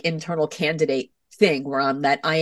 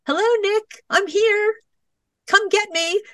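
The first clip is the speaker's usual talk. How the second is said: much higher sing-song calling voice; potential self calling. Pretend. Your potential self calls you to come, high and sing-song. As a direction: sing it out like a bright inner self beckoning. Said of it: "that's like".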